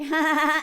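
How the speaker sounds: mock nervous laughter; nervous fake laugh. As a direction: laugh it off to dodge. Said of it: "I'd be like".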